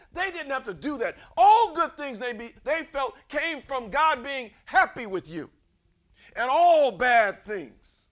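loud, high pulpit proclamation; full-force preaching. Real, not acted. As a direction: preach it out, punching key words.

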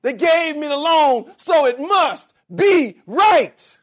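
loud, high and slow, smug certainty; mock-confident believer voice; mocking self-justification. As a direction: ham up the fool sure he's right.

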